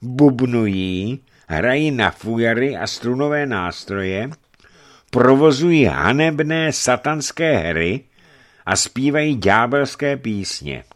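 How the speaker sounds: high, emphatic denunciation; disapproving bishop. Acted. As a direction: list the pagan sins with indignation.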